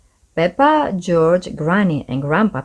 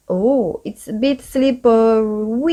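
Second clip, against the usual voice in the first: Daddy Pig crying out; 4 semitones higher than usual. A narrator's reading. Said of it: "he cried".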